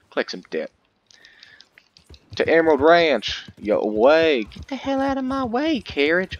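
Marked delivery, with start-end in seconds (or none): 2.3-6.4 loud shout at the road; yelling. Real, not acted. Yelling at a carriage blocking his path, loud. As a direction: bark him out of the way.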